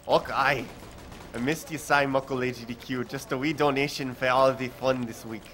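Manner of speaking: a weak, hammed-up Scottish accent; reading out a donation in a mock Scottish brogue. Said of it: "And I murdered that horribly".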